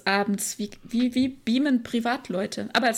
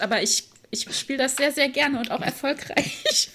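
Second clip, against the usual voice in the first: coy laughing; 2 semitones higher, slower than usual. Real, not acted. Coy boast about Tabu.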